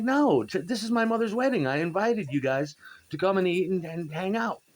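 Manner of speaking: exasperated protest. Retold or imitated. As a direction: insist it's his mother's wedding. Arguing with bandmate at wedding.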